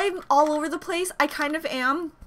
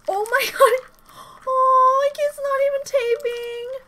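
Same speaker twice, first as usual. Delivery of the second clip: laughing exasperation; 9 semitones higher, 3 dB louder, slower than usual. Real, not acted. Tape fails on headphones.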